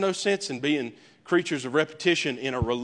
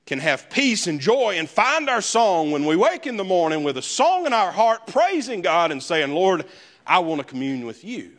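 preaching prayer. Acted. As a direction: plead with God from the pulpit. Preaching and praying the psalm.

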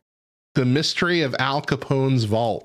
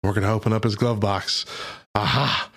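a singer's joke voice. Retold or imitated. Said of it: "a singer ... made a joke about it, saying".

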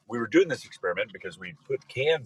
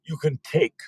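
high, menacing puppet-vampire taunt; hammed-up villainous count; 9 semitones higher, 6 dB louder than usual. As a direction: interrogate like a cartoon vampire. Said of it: "The Count has it in for Richard Simmons".

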